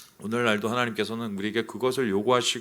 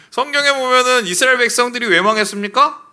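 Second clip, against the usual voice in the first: much higher, louder laughing question; 11 semitones higher, 9 dB louder than usual. Real, not acted. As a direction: laugh it out then ask. (웃음 섞인 높은 목소리로 질문)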